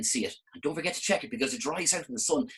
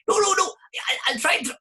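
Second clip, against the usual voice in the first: very high, loud refusing flower; squeaky flower protest; 6 dB louder than usual. Acted.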